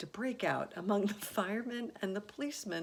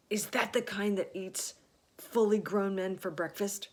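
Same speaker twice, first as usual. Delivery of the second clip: frightened; 3 semitones higher, 6 dB louder than usual. A narrator's reading. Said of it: "going white as a sheet".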